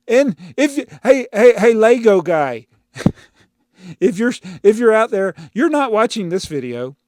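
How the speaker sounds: high, loud mocking call. Real, not acted. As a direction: shout to the Lego guy. Calling out banned commenter.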